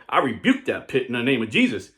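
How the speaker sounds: loud mock faith-healer proclamation; Pentecostal rebuke. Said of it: "Then a Pentecostal Christian walked by".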